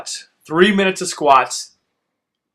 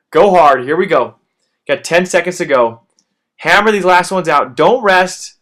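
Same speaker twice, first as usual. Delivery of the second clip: louder, driving calls to finish; coach's shout; 3 semitones higher, 6 dB louder than usual. Real, not acted. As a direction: yell them through the last reps. Calling out the last seconds.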